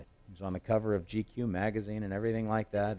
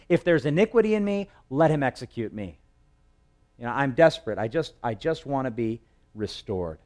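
louder pleading, climbing higher in pitch; desperate plea; 4 semitones higher, 6 dB louder than usual. Acted. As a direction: beg to see the king's face, voice rising. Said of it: "Absalom's desperate".

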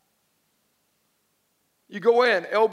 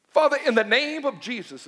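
opening a prayer over someone; imitated fervent prayer; 3 semitones higher than usual. Woman praying over a patient she just met, mildly fervent. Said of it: "this woman starts praying over me".

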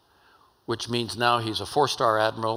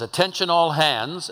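drawn-out announcer call, higher and louder; slow, raised naval announcement; ship loudspeaker call; 6 semitones higher, 5 dB louder than usual. Retold or imitated. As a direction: boom it out slowly like a ship's PA. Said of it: "And then the voice says".

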